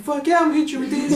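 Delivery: very high, loud retort breaking into laughter; hammed-up yelled comeback; mock defiant shout. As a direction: replay your threat at a comic high pitch. Acted quarrel, retold with a laugh.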